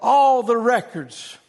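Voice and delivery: loud, drawn-out royal command; slow, commanding mild yell; retold scream. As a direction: cry out the order slowly and forcefully. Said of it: "he screamed out".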